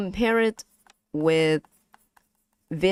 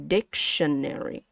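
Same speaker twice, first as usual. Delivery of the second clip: teacher's demo of stress on DIC in "Dictionary"; first-syllable stress. Shown as a demonstration. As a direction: lift DIC, then fall through "Dictionary". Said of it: "you wanna stress in this one".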